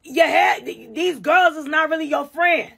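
put-on drunk girl voice. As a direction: gush like a tipsy friend. Drunk girl advice in bathroom.

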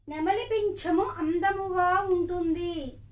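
sentence read slowly for dictation; dictation pace. Shown as a demonstration. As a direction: read each word apart so children can write. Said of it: "ఇప్పుడు వాక్యాలు వ్రాయాలి".

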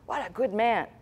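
breathy whispered approval; mock admiring whisper. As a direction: whisper it like fawning onlookers. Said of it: "People out there in the world will look at this and say".

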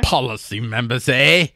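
snooty British reading capped with a tossed-in "eh"; badly faked British man from New Jersey; mock British-New Jersey accent. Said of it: "British man from New Jersey".

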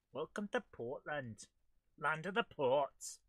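put-on Scottish welcome; thick Scottish accent. Player greeting a new game area, thick Scottish accent. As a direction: announce it in broad Scottish. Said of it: "gone for a thick Scottish accent".

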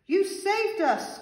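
high, loud, drawn-out squeal; delighted squeal. A narrator's reading. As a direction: gush with storybook relief and joy. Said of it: "squealed the veggies".

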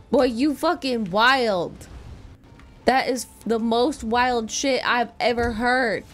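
loudly scandalized outburst; loud disbelief. Real, not acted. Streamer to viewer over a wild challenge, loud disbelief. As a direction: exclaim it, appalled by the idea. Reacting to outrageous challenge suggestion.

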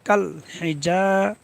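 যা drawn out for one beat in কাল হি যা; short হি, then long যা; one-alif elongation. Shown as a demonstration. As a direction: stretch the vowel of যা by one alif. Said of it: "এক আলিফ টানতে হবে".

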